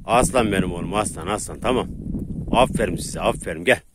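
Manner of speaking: low, gentle dog praise; praising the dog. Real, not acted. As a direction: pet him with your voice.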